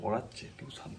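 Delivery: hushed so as not to disturb; speaking softly. Real, not acted. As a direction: keep your voice down. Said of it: "আমি আস্তে আস্তে কেন কথা বলছি".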